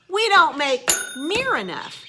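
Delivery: slow, stressed "don't"; emphatic. Real, not acted. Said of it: "not gonna get all up in a excited roar".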